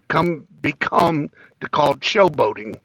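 groggy morning voice; just woke up, voice not warmed up. Real, not acted. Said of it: "Still got my morning voice".

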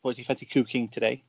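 "cooking" with a Stoke long oo; Stoke accent. Shown as a demonstration. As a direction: show the Stoke ping on "cooking". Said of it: "where you know you're from Stoke".

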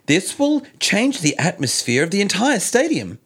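lightly voiced politician quote; Gladys impression. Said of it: "my best impersonation of Gladys".

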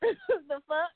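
laughing disbelief through the words; amused scoff with a laugh. Real, not acted. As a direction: crack up mid-line. Laughs at his own rant.

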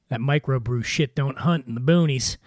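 ordinary talk, nothing marked

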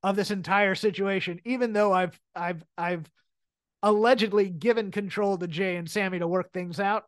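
lightly imitated self-assured boss, measured; a hint of a commanding chief; Roman in control. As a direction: state it with understated authority. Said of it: "he also has the delivery of".

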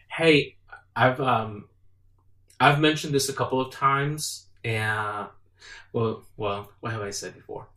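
patient reminder. Shown as a demonstration. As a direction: ask it patiently, without blame. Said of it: "Then the other tone would be like".

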